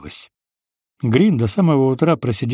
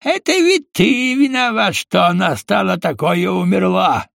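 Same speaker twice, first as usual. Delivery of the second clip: high, mocking accusation; the villain Mosfet taunting Green; sneering villain; 6 semitones higher than usual. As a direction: twist the knife with glee.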